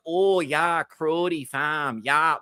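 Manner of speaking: exaggerated Canadian slang voice; imitating a newly Canadian rapper; mock Toronto accent. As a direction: put on a fake Toronto accent. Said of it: "the rapper was not this Canadian ten years ago".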